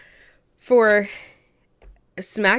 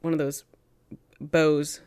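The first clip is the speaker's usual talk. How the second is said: whisper; 5 semitones lower, 6 dB quieter than usual. Real, not acted. Whispered aside mid story.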